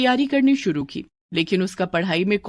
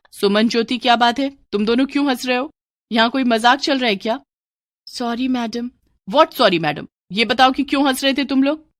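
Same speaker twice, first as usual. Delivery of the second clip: put-on sharp, raised rebuke to giggling girls; a stern teacher telling off the class; scolding teacher; 3 semitones higher than usual. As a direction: demand an answer, annoyed.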